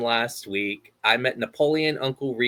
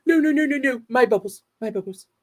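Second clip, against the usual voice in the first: high, frantic fish wailing over bubbles; Finding Nemo impression; 11 semitones higher, 3 dB louder than usual. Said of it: "my Finding Nemo impression".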